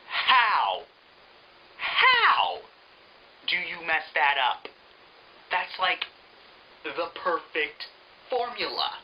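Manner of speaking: cracking up high in exasperation; exasperated disbelief. Real, not acted. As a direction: throw up your hands in disbelief. Exasperated rant about ruined concept.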